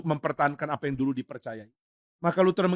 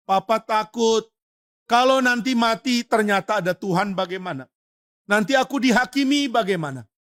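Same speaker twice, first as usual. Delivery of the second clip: higher, anxious pleading of a dying man; frightened old father; 5 semitones higher than usual. Retold or imitated. Old atheist father confides his fear to his son, anxious and higher. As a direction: let fear of judgement push the voice up. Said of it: "Di dalam ketakutannya".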